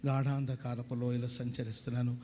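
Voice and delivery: slow, low, mournful reading of a poem; sad recitation. Retold or imitated. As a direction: recite it slowly like a gloomy verse. Reading a sad rhyming quotation.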